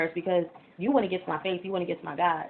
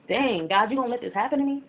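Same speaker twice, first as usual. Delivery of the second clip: retold anger at God; 4 semitones higher, 4 dB louder than usual. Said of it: "that's when I was angry with God".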